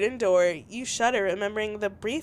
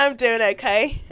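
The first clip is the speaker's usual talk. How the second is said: put-on louder retry, accent still landing British; 5 dB louder than usual. Retrying the text reply, accent still British. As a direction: aim for Southern but come out British. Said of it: "that's still British".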